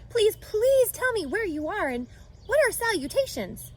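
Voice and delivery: high, begging squeal; desperate pig. Acted. Wilbur begging the voice to show itself, high squeal. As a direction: plead with all your heart.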